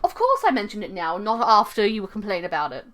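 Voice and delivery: lilting British owl voice; lightly hammed-up British tour guide; British accent. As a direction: lecture like a British museum owl. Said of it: "give him some kind of British accent".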